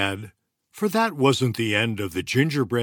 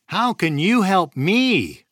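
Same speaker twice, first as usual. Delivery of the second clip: gingerbread man asking; 9 semitones higher, 6 dB louder than usual. A narrator's reading. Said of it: "the gingerbread man asked".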